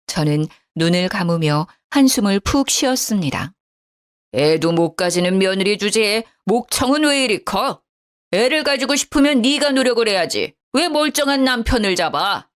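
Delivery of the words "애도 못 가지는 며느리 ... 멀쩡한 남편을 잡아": father-in-law's rant read higher, only lightly raised; a hint of an old man yelling at his daughter-in-law; understated scolding shout; mild mock shouting. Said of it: "녹이 섞인 시부의 샤우팅".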